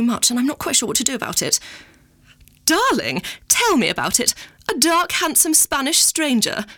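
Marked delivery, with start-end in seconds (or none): 2.6-4.3 lightly voiced mother leaning in for gossip; imitating Mummy gushing. 4.7-6.7 higher, slow, dreamy posh mother; imitating Mummy swooning.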